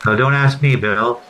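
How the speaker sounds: arena public address announcer reading the goal; Paul Morris impression. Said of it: "the darndest best announcer ever at Maple Leaf Gardens".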